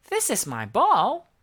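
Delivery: put-on a child guarding her toy; stubborn little girl. A narrator's reading. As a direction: claim it like a bossy kid. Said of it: "the girl said".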